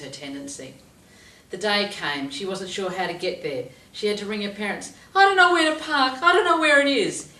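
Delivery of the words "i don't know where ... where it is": higher loud flustered wail; panicky whine. Retold or imitated. Student phoning parents lost, panicky whine. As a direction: sound lost and helpless.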